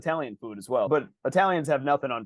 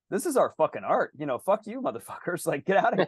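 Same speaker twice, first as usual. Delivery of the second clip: playfully indignant quote, pitched up; mock defiance; 4 semitones higher than usual. Host voicing locals telling invaders to get out, mock defiance. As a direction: act out a defiant outburst, breaking into a laugh. Voicing the French defying occupiers.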